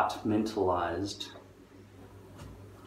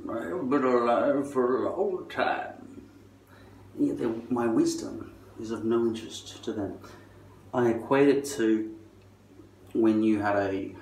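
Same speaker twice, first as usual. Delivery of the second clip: put-on old man voice; 4 semitones higher, 4 dB louder than usual. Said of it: "Old man".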